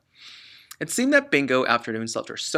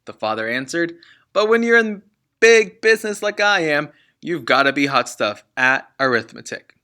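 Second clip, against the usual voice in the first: loud, smug dad; boastful father; 2 semitones higher, 8 dB louder than usual. Acted. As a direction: lord it over the kids.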